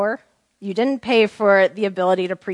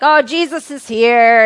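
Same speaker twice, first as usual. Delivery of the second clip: excited crowd cry; 3 semitones higher, 9 dB louder than usual. Retold or imitated. Excited crowd greeting the Lord.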